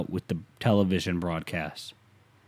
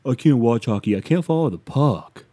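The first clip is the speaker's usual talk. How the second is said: whining non-fan; 5 dB louder than usual. Acted. Mocking people who can't watch hockey, whiny. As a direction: whine it out like someone who can't follow hockey. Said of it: "for the people out there".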